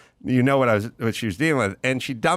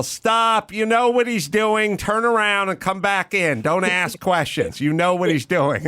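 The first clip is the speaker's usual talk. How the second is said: imitated teacher's yell, much higher pitched; Cynthia Seghetti; 8 semitones higher than usual. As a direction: yell instructions like a big, blustery improv coach. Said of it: "And she'd yell".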